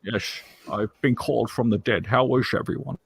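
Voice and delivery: Sean Connery impression. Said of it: "That's a great Sean Connery accent".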